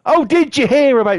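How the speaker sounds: high, loud mock shouting; imitating a foghorn-voiced woman; loud gossip imitation. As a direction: blare the gossip for everyone to hear. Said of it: "as loud as she fucking can".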